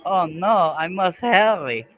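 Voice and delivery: mock hurry. Streamer hamming up panic about the deadline. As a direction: ham up the panic.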